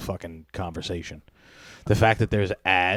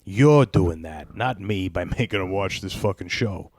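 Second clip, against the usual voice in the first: mock inner seething. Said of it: "This is all the inner monologue".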